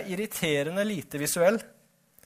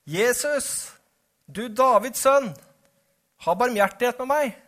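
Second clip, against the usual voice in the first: calling out; 6 semitones higher, 4 dB louder than usual. A narrator's reading. Blind beggar calls to Jesus for mercy, calling out. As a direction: call out to someone passing, pitched high. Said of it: "satte han i å rope".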